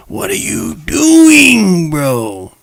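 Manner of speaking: long, slow, high drawn-out cry of disbelief; stunned disbelief. Real, not acted. Vlogger reacting to a gunman, slow high disbelief. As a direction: stretch it out high, you can't believe it.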